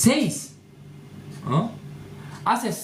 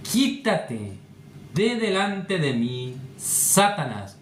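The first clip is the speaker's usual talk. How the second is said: slow, drawn-out solemn rebuke; lightly voiced Jesus, pausing between phrases; stern Jesus; 4 semitones lower, slower than usual. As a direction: rebuke Peter slowly and gravely. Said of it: "los ojos de Jesús, como ojos de fuego".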